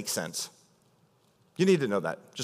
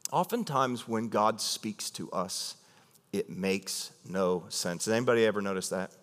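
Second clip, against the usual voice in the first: hushed preaching; 8 semitones lower, 6 dB quieter than usual. Acted. Preacher drops to intimate aside.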